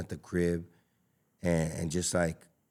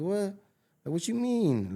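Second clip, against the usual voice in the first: shocked disbelief; 12 semitones higher than usual. Retold or imitated. Retold shock at wife's question.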